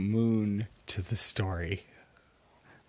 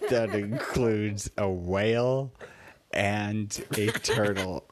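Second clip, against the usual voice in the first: laughing; 3 dB louder than usual. Real, not acted. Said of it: "we have to stop laughing".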